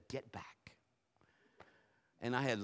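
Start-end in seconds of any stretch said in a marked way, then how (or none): 0.1-0.6 quiet. Retold or imitated. Retold quiet repeat of command.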